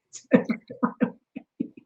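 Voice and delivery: awed whisper. Real, not acted. To the interviewer about the circle of love, a real whisper. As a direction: breathe it out in wonder.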